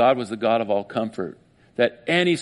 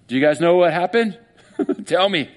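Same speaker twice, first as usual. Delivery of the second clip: raised, pleading; desperate plea; 5 semitones higher, 4 dB louder than usual. Acted. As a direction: beg strangers for an answer. Voicing Mary pleading with angels.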